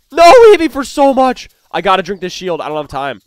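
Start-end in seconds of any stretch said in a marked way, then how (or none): 0.1-1.5 dismay. Real, not acted. Taking heavy damage.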